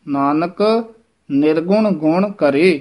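ਨਾਨਕ, then a clear pause before ਨਿਰਗੁਣ ਗੁਣ ਕਰੇ; pause after Nanak. Shown as a demonstration. Teacher shows students the pause after ਨਾਨਕ. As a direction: break after ਨਾਨਕ, don't run it into ਨਿਰਗੁਣ. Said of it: "ਨਾਨਕ ਪਦ ਤੇ ਯਮਕ ਜ਼ਰੂਰ ਲਾ ਕੇ ਬੋਲਣਾ ਹੈ".

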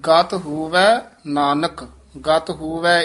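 ਗਤ ਹੋਵੈ slow and firm, with a small halt before Nanak; slight halt demo. Shown as a demonstration. Teacher showing a small halt before Nanak. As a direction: give a little catch after ਹੋਵੈ. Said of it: "ਥੋੜ੍ਹੀ ਜਿਹੀ ਠਮਕ ਲਾ ਕੇ ਨਾਨਕ ਪਦ ਤੇ ਵਿਸਰਾਮ".

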